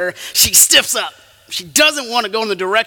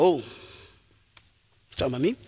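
small, low, hushed question; imitating a chastened churchgoer; sheepish realisation; 7 semitones lower, 10 dB quieter, much faster than usual. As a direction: shrink back as if caught out. Congregation realising it is being accused.

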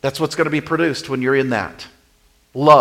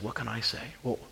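soft, stumbling mock excuse; acted inner scramble, kept quiet; flustered thinking; 6 dB quieter than usual. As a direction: fumble for a comeback under the breath. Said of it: "you're thinking really fast".

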